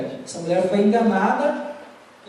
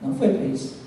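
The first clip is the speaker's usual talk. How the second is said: gentle reproach; 2 semitones lower, 5 dB quieter than usual. Retold or imitated. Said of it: "o Espírito Santo fala assim".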